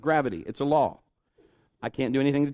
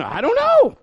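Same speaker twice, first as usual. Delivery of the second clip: baffled doctor; 9 dB louder than usual. Retold or imitated. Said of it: "the doctors are going".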